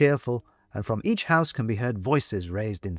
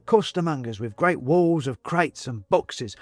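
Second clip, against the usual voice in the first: put-on higher, cockney-tinged old man voice; china man character; 5 semitones higher than usual. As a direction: voice the chatty porcelain man, raised pitch.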